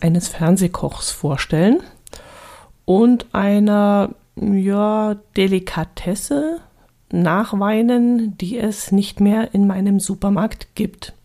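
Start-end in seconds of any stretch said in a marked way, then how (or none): 2.8-11.1 hoarse, failing voice; voice giving out. Real, not acted. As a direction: voice cracking and giving out. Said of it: "meine Stimme versagt gleich am Anfang".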